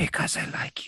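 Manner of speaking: eerie, unsettling, creepy, breathy whisper. Answering a girl who asks why he's even talking to her, in a creepy whisper. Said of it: "A creepy whisper".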